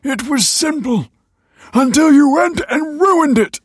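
high, loud, frantic shouting; impassioned accusation. A narrator's reading. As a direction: shout your self-justification, building to blame. Father defends himself, accusing the family.

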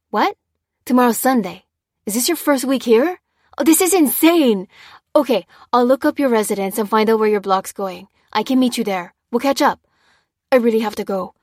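hurried soldier, thrilled at a reunion; animated friend on duty, voice lifting; excited major. Acted. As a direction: talk in lively bursts, delighted but needing to go.

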